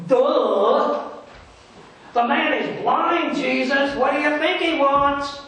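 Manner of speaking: loud mocking retort, the middle slow; the merchant scoffs to himself at Jesus, sarcastic. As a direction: roll your eyes at Jesus' question. Merchant's sarcastic inner thought.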